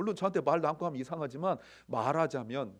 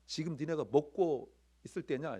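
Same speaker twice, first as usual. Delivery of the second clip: lightly acted rebuke in usual voice; mild mock scolding. Preacher imagining himself in Jesus's place, mildly scolding. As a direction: chide them mildly, hardly raising the voice. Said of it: "나 같으면 이렇게 얘기했을 거예요".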